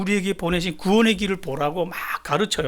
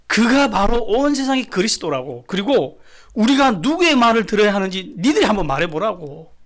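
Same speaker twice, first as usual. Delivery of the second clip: raised, challenging preacher's quote; defiant counterattack; 4 semitones higher, 3 dB louder than usual. Acted. Apostles answering the council that tries them, acted defiant counterattack. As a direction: throw it back at the judges as a challenge. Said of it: "공격합니다".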